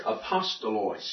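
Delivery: "apostolos" stressed on the second syllable; accent on pas. Shown as a demonstration. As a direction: model "apostolos" with the weight on POS. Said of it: "put the accent here".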